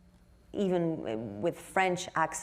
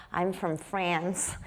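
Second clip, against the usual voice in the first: soft French A; much slower than usual. Retold or imitated. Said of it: "soften my A because I was like".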